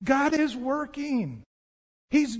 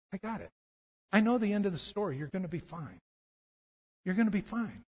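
soft, unruffled reply to panic; quietly reassure, as Jesus would; calm reassurance; 2 semitones lower, 4 dB quieter, faster than usual. Acted.

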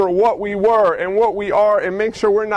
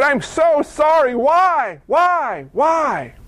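anguished crying out; 3 semitones higher than usual. Acted. Grown lame man crying out.

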